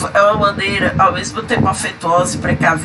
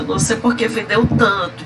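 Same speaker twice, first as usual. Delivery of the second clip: contemptuous tone; 3 semitones higher than usual. Shown as a demonstration. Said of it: "quando eu falo assim".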